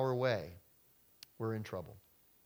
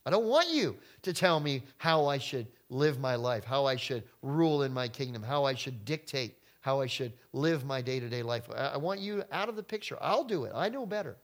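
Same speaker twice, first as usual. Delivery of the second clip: defiant. Pretend. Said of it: "we don't want God telling us".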